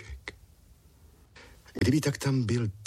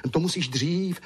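a higher, eager blurt; mildly raised hurried plea; 10 semitones higher than usual. Acted. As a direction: burst out impatiently. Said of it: "vyhrkl Francínek".

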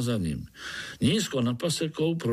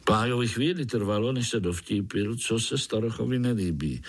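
ordinary delivery, nothing marked

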